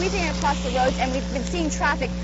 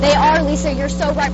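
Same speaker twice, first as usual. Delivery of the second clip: raised voice over roaring gusts; shouting over wind; 7 dB louder than usual. Real, not acted. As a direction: call it out loud over the storm. Reporter live in hurricane winds.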